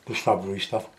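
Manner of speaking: words around a sip of tea; slurping tea. Real, not acted. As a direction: talk while sipping hot tea. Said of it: "Sorry, slurping, I'm drinking my cup of tea".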